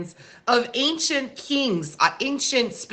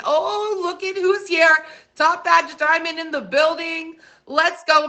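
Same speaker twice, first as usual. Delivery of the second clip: high, hyped welcome; excited shout-out; 6 semitones higher than usual. Real, not acted. Streamer greeting a top badge viewer, excited and high. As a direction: announce the arrival with raised pitch.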